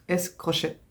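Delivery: French speaker's light put-on Spanish accent. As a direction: read the Spanish words with a playful Spanish accent. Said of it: "Pardon pour mon accent espagnol".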